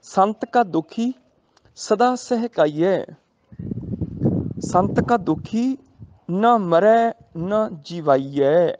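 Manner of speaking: slow, measured scripture recital; gurbani recitation. Shown as a demonstration. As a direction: draw each word out reverently. Recites gurbani line slowly. (ਹੌਲੀ ਪਾਠ ਦੀ ਲੈਅ)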